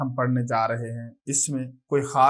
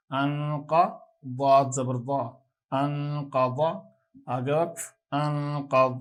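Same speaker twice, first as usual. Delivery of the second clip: measured sing-song spelling recitation; a steady spelling chant for children; qaida spelling drill. Acted. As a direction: spell each syllable out steadily like a class drill.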